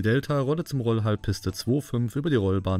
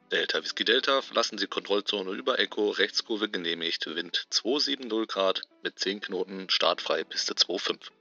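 tower controller voice; 4 dB quieter than usual. Acted. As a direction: play the tower on the radio. Tower controller answers pilot on radio.

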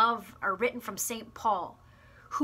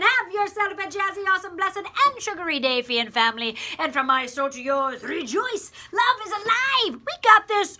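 much higher, louder joyful send-off; hyped sign-off; 8 semitones higher, 7 dB louder than usual. Real, not acted. Preacher sending off the family after the prayer, much higher and louder joyful shout. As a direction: fire up the congregation as you close.

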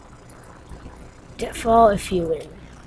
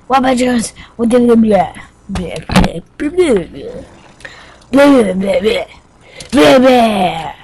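loud nonsense blah-blah; loud babbling; 2 semitones higher, 7 dB louder than usual. Pretend. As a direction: babble noisily over the game. Loud nonsense babble while playing.

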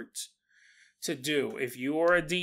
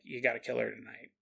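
menacing demon; 5 semitones lower, 8 dB quieter than usual. Acted. Demon demands the murder.

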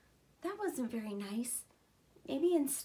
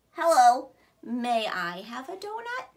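polite lemur; 9 dB louder than usual. Acted.

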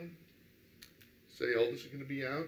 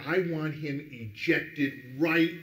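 stern demand; 4 dB louder, much slower than usual. Retold or imitated. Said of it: "and they say".

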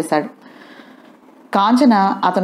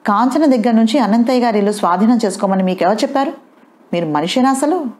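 raised, higher angry challenge to father; angry accusation; 4 semitones higher than usual. Acted. Son angrily confronts father over the house. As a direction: accuse him, voice climbing. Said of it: "అతన్ని అంత కోపంగా".

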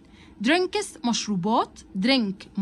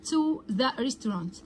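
slow model reading; much slower than usual. Shown as a demonstration. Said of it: "teacher models English slowly".

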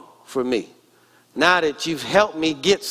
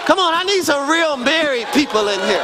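raised preaching call to the crowd; urging the congregation, raised voice; 9 semitones higher than usual. Real, not acted. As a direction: call the married folks in, firmly.

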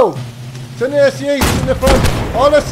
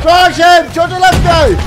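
shouting; 3 semitones higher, 5 dB louder than usual. Real, not acted. Battle commands in game.

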